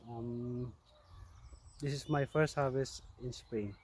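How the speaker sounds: talking while chewing; mouth full. Real, not acted. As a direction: speak through a mouthful of broccoli. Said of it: "Sorry about my mouth is full".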